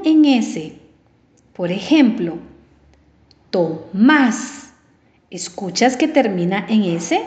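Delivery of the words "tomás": "Tomás" split in two, force on "más"; stress on last syllable. Shown as a demonstration. Teacher giving an example ending in S, stressed "más" in "Tomás". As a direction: pause after "To" in "Tomás", then lean on "más". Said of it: "lleva la fuerza de voz en la última sílaba".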